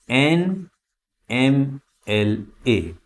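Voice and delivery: एनएमएलए spelled out very slowly; slow model reading. Shown as a demonstration. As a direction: stretch every letter of एनएमएलए. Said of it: "slow model reading".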